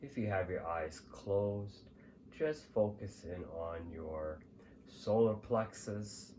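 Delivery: calm, measured meditation guide; guided meditation. Acted. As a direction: lead the listener gently, pausing between phrases.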